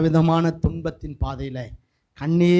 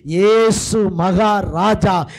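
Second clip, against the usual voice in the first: forceful preaching; 4 dB louder than usual. Real, not acted. Preacher proclaiming the risen Jesus among the congregation, forceful preaching. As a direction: build to a ringing hallelujah.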